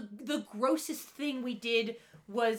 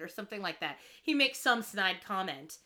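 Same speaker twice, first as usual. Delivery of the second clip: usual speaking voice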